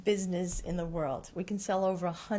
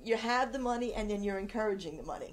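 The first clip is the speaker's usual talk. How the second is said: auctioneer demo; faster than usual. Shown as a demonstration. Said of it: "what am I doing with my hands".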